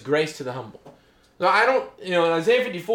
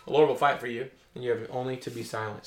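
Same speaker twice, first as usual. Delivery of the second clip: softer, lower, steady reassurance; calm Moses; 4 semitones lower, 5 dB quieter than usual. Acted. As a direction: settle the frightened people gently. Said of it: "Moses said to the people".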